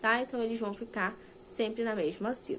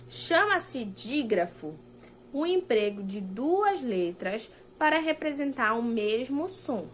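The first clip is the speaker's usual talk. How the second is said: reading the rule aloud slowly; slow textbook reading; slower than usual. Acted. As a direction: dictate it, word by word, slowly. Reads definition from the book.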